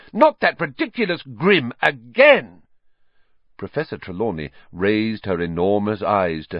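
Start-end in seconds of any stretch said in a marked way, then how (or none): 0.1-2.6 higher, louder scornful outburst; loudly. Acted. Hermione mocking the grim, loud scorn. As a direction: scorn the prophecy aloud. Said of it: "said Hermione loudly".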